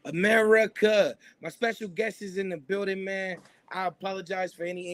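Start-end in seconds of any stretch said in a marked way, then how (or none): 0.1-1.2 drawn-out call. Acted. Radio host signature call.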